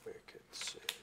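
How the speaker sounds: wicked sick in a Boston drawl; broad Boston vowels; Boston accent. Pretend. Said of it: "Innistrad was by way of Boston".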